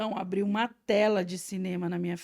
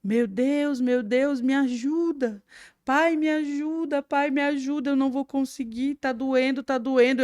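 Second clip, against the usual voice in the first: crying out in pain; 5 semitones higher than usual. Retold or imitated. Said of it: "Eu caio gritando".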